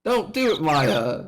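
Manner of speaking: loud, urgent warning; alarmed shout. Acted. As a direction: call out to stop a friend. Calling out to stop Maya.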